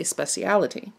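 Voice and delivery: "speciality" in five syllables, spesh-ee-al-i-tee; "speciality" said as it's spelled; British speciality. Shown as a demonstration. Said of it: "There, they'll say".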